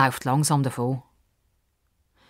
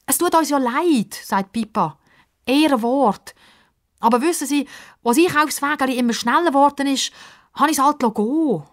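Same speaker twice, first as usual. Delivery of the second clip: put-on high, sheepish girl's voice; Pippa apologizing; 10 semitones higher than usual. A narrator's reading. Pippa apologizes to old man, sheepish girl. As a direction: explain apologetically.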